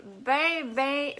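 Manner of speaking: "bien" said as "ben" in a Québécois accent; Québécois vowel on "bien", the i dropped. Real, not acted. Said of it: "j'ai pris mon accent québécois". (accent québécois, « bien » prononcé « ben »)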